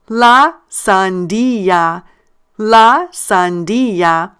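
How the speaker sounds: "la sandía" slowly, long stressed DÍ; stressed syllable. Shown as a demonstration. Teacher reading the pronunciation with learners, slow stressed "DÍ" in "sandía". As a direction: draw out "la sandía" syllable by syllable, leaning on DÍ. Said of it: "read the pronunciation with me".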